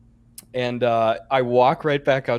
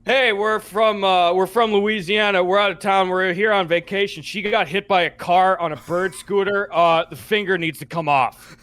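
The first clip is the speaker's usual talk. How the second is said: frantic tourist; 5 semitones higher, 3 dB louder than usual. Retold or imitated. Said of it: "like, frantic, out of breath stuff".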